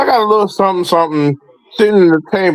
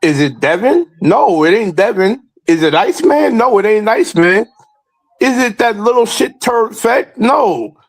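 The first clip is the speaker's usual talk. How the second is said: rising rhetorical callout; 4 semitones higher than usual. Real, not acted. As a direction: pitch climbs higher with each question. Rhetorical callout builds to climax.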